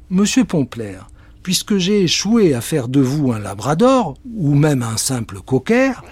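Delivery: lightly voiced polite witch. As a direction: apologise grandly. Witch apologizes.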